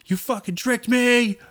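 high, slow strained whisper yell; stage whisper. Retold or imitated. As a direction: yell it, but under your breath. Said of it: "do a whisper yell".

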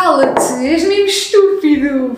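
loud, exasperated telling-off; playful angry outburst; half-joking scold. Real, not acted. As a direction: snap at him, spooked and annoyed. Scolding friend after scary story.

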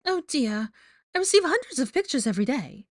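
high, fake-sweet character voice; put-on chirpy high voice; Rita Skeeter, falsely chipper. A narrator's reading. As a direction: brush it off with false cheer. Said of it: "her falsely chipper voice".

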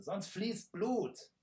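high, slow and menacing; slow hissed threat. Acted. Archer slowly threatens bloodshed. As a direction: lean on every word as a death threat. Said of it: "zischte der Bogenschütze".

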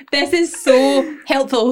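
slow, laughing fake sincerity; laughing mock gushing. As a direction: gush through a laugh. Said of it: "It was literally like".

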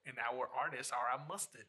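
badly faked English accent; terrible English accent. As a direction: attempt an English accent and miss. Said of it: "Terrible, terrible accent".

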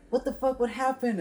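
high, startled partygoers; shocked. Retold or imitated. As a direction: gasp it out in disbelief. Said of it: "everyone's like".

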